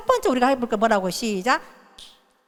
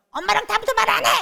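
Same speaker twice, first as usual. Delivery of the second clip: put-on much higher, pouting child's complaint; sulky child; 10 semitones higher, 3 dB louder than usual. An ignored child sulking at mom, higher and whiny. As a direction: whine it like an ignored kid.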